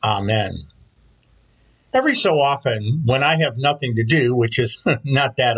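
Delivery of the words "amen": measured prayer, pitch settling at phrase ends; spoken prayer. Real, not acted. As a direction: pray aloud for the congregation in unhurried phrases. Leads the opening prayer.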